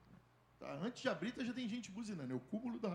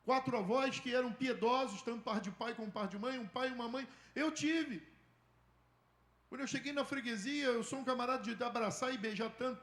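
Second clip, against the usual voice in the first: building, louder and higher fervent preaching; preaching at full force; 6 semitones higher, 5 dB louder than usual. Acted. Pastor stirring the congregation about the boy, fervent build. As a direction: drive it home to the church, growing.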